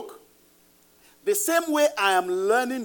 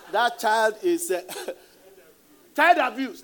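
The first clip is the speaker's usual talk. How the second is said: laughing mock accusation; 4 semitones higher, 7 dB louder than usual. Quoting neighbor, laughing.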